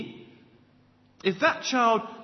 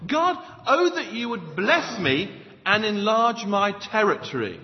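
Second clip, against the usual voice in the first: desperate cry to God; 4 dB louder than usual. Acted. Preacher acting Jabez crying out to God, urgent raised plea. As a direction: cry it out like an acted desperate prayer. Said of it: "He cried out to God".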